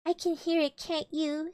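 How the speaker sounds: a touch of nervous worry; whisper-ish nervous question; mildly anxious little pig. Acted. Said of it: "said Piglet anxiously".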